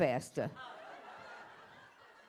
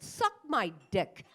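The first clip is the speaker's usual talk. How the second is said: slow insult to cab driver; 2 semitones lower, slower than usual. Retold or imitated. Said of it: "I said".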